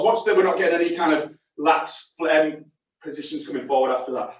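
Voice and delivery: talking while winded from exercise; out of breath. Real, not acted. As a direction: push words out between breaths. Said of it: "I'm out of breath".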